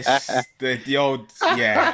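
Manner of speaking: laughing through the words. Real, not acted. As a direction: chuckle while saying it. Laughing at screwdriver joke.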